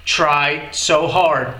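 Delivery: very slow, careful repetition; slow repeat. Shown as a demonstration. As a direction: stretch each word out for learners.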